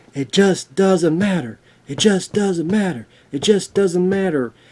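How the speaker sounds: repeated, rallying-cry style delivery. Recalling a line from the movie Meatballs: Bill Murray impression. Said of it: "remember when Bill Murray's like".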